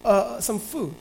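lightly voiced king buttering up his soldier; smooth-talking David. Preacher voicing David sweet-talking Uriah, lightly coaxing.

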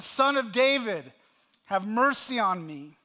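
loud, insistent retold plea; crying out. Blind man calling to Jesus over the crowd, crying out. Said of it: "he cried out all the more".

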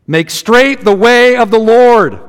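slow, drawn-out proclamation of the words; proclaiming cry. Acted. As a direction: call it out like a herald across the desert. Prophet's cry quoted from Isaiah.

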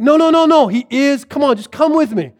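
high, eager protest; insistent urging. Retold or imitated. Philip urges his doubting friend along, insistent. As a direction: talk over his doubts.

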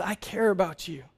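soft and reassuring; gentle father soothing his child; tender love. Retold or imitated. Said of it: "my love for him saw him in his mess and said".

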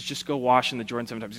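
quick offhand instruction, tossed away; a dismissive aside. Acted. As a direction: toss it off fast like it's nothing. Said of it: "He says".

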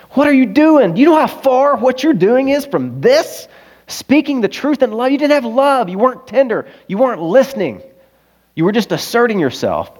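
high, loud pleading shout; urgent shout. Retold or imitated. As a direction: yell it at your younger self. Shaking his younger self.

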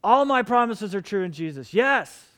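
loud, ringing shout of yes; booming divine yes, hammed up for the crowd; God screaming yes. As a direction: proclaim it as God shouting across the room. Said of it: "God is screaming".

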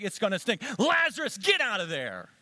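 rising to a loud call on "Lazarus"; alarmed sister objecting; protesting. Acted. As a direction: Martha warning Jesus, then calling out loudly. Martha protesting, calling Lazarus.

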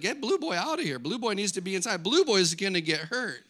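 lightly acted urgent plea; urgent retold warning. Friend warning to get the puppy out, mildly urgent.

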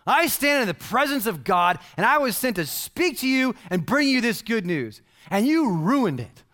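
lightly voiced angel scolding; angry angel. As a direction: angel rebuking the doubter, firm. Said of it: "This is what he says".

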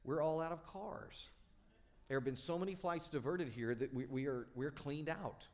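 mild sad clerk voice; sadly. Retold or imitated. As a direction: let the word cars sink, a touch sorry. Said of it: "he sadly said".

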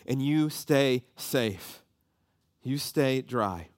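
put-on slow, gentle words to calm a child; reassuring. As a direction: ease her fear, slowly.

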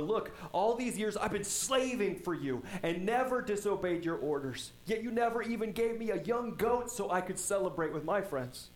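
lightly voiced complaint of the older brother; older son protesting to his father, mildly aggrieved. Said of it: "But he answered the father".

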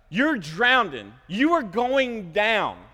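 slow, swooping emphasis on each word; emphatic warning. Acted. Preacher picturing the sinking boat, emphatic warning. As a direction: stretch out the doom. Preacher drives home the peril.

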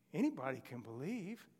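retold excitement, pitch leaping on "Anybody"; a touch of a boy's amazed realization; mildly excited. Dying soldier realizing salvation is for him, mildly excited. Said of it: "he got real excited".

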